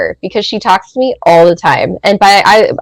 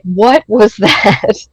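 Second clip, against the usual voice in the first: laughing disbelief; much slower than usual. Retold or imitated. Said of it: "I was like".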